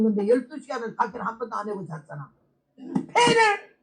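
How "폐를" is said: very slow, high, laughing; drawn-out joyful laugh. Retold or imitated. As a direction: laugh with disbelief. Laughing joy at healing.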